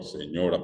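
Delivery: "señora" repeated as seÑOra, weight on ÑO; Castilian penultimate stress. Shown as a demonstration. Teacher repeats the llana word, "señora" stressed on the middle syllable. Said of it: "palabra llana".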